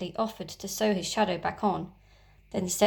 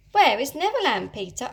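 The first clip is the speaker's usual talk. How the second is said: put-on high, louder eager girl's question; 4 semitones higher, 5 dB louder than usual. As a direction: ask bursting with curiosity. Wendy asking Peter eagerly.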